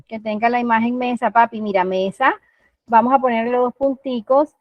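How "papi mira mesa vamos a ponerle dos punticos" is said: put-on talking to a child. Shown as a demonstration. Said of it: "Uno también le puede trabajar al chiquito".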